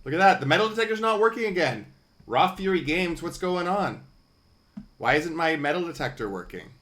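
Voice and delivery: high, loud, fast frustrated complaint; bewildered and loud about the broken tool; exasperated outcry. Real, not acted. Game item not working, loud complaint.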